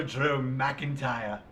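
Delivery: slow mock Scottish; attempted Scots accent, drawn out. Shown as a demonstration. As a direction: draw the name out in a Scottish accent. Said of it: "sound kind of Scottish".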